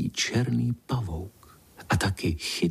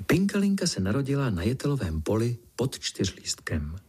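ordinary delivery, nothing marked

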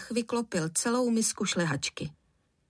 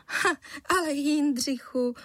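smiling; 7 semitones higher than usual. A narrator's reading. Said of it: "usmála se paní Žihadlová".

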